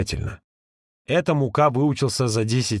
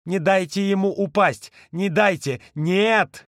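strangled cry; 7 semitones higher, slower than usual. A narrator's reading. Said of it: "Сдавленно крикнул".

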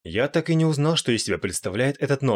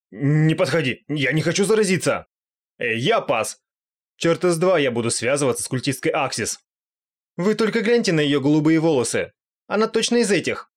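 higher, panicky cries; scared monsters; 6 semitones higher, 3 dB louder than usual. Acted. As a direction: back away in disgust. Monsters recoil from cultist. (испуганные монстры, выше и громче)

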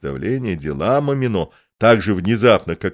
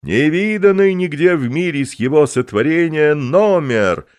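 loud, higher proclamation; booming circus ringmaster; 7 semitones higher, 4 dB louder than usual. Acted. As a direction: proclaim it grandly to the arena. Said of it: "возглашает клоун".

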